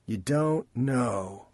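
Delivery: slow, disbelieving repeat; incredulous echo. Acted. Chance echoes Rain in slow disbelief. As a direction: drag it out, not buying it.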